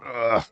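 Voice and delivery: short imitated groan of effort; mock old-age grunt. Shown as a demonstration. Showing aging's warning before a fall, groan. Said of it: "you'd have, like, the groan".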